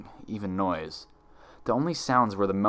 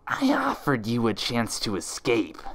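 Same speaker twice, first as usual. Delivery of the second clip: chuckling. Acted. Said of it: "the other Twilight chuckled".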